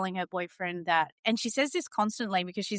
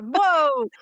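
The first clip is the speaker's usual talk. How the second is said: a loud, high startled whoa; mock surprise; 5 semitones higher, 7 dB louder than usual. Mother reacting to daughter's harsh lesson, mock surprised whoa. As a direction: act taken aback by her daughter's blunt words. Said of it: "I'm like".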